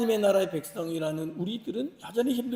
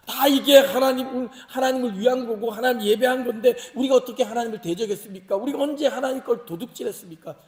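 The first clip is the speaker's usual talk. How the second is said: higher, pressing mock defence; self-justifying protest; 4 semitones higher, 5 dB louder than usual. Malachi's believers defending themselves to God, protesting. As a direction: insist on innocence, piling up excuses. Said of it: "그렇게 항변을 하는 거죠".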